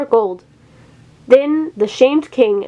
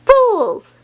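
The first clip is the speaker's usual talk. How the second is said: very high, louder witch screech; witch's cry; 12 semitones higher, 3 dB louder than usual. A narrator's reading. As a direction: screech at them from the stump. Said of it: "cried Babbitty's voice".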